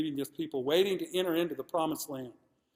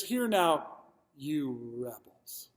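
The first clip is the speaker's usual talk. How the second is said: frustrated rebuke; 2 semitones lower, much slower than usual. Acted. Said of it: "you can hear his frustration here".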